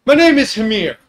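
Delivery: loud, high, proud giant voice; dopey cartoon bellow. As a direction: announce yourself like a hearty giant. GM voicing giant Hamir.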